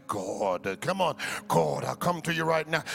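a hint of Bible-college pulpit prayer; preacher voice. Pastor mimicking what Bible college taught, lightly mock. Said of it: "You're using your preacher voice".

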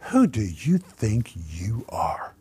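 slow, voiceless whispered rebuke; a slow scornful whisper; retold hiss. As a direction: hiss the question in disbelief. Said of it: "he literally reamed me out".

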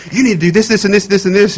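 a mild mock demand. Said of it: "running to me and say".

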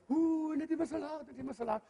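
half-hearted fussy mockery; mocking complaint. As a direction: sniff disapprovingly, dropping away. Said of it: "die sagen".

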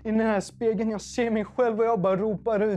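high-pitched, emotional preaching; impassioned testimony. Acted. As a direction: keep the preaching fervour high through the story. Preaches at full force.

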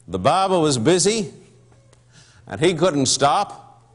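steady storytelling recitation; poem narration. Acted. Preacher reciting the poem to the church, storytelling.

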